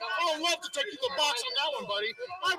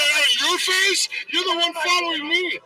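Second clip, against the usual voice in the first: angry shout; 10 dB louder than usual. Real, not acted. Shouting back at officer.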